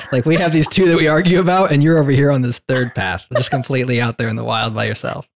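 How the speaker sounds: loud, high, then easing down; incredulous protest. Acted. Interviewer telling the creator he's alone, incredulous protest. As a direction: burst out in disbelief, settling by the end.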